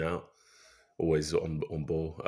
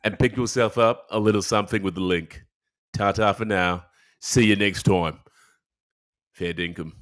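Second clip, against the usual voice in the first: put-on Australian accent; 2 semitones higher, 6 dB louder than usual. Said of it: "in an Australian accent?".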